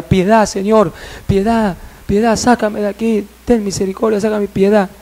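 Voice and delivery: urgent mock begging without volume; child begging for mercy. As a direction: imitate a tormented child's plea. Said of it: "un niño de diez años pidiendo piedad".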